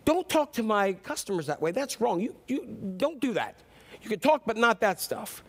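lightly acted scolding; mild fussing at a bird; mock fussing. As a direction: tell off a naughty pet, half-seriously. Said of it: "he starts fussing at it".

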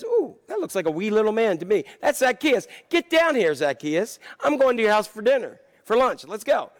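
Jesus calling up a tree. Acted. Preacher acts out Jesus calling Zacchaeus.

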